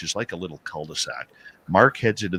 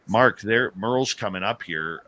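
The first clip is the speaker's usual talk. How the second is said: mild mock yell, a little raised; retold yell; 4 semitones higher, 3 dB louder than usual. Yelling down at Mark for help, mild retold yell. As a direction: lightly act out calling for help. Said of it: "I yell".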